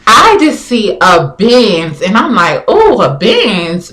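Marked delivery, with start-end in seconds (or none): 2.7-3.9 drawn-out admiring reaction, pitch swooping; mildly impressed. Retold or imitated. Woman spotting a Benz at the light, openly impressed. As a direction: slowly admire the car, lilting up and down. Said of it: "groupie Benz".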